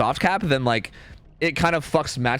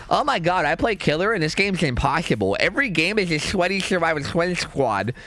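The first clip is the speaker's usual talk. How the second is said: a lightly done dumb whiny voice, making fun; mocking dumb voice. Streamer mocking frustrated Killer players, lightly dumb voice. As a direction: mimic a complaining Killer player as a mild mock. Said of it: "I did that in a dumb voice".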